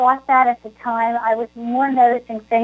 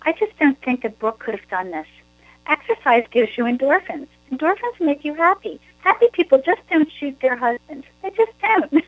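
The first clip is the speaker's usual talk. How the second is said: Elle Woods quote; 4 semitones higher than usual. Retold or imitated. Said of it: "Elle says".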